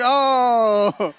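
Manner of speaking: high, loud cooing oh as at a puppy; pitying coo. Retold or imitated. Stranger pitying a single man like a puppy, high coo. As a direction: coo at him like a lost puppy. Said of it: "Somebody over there like".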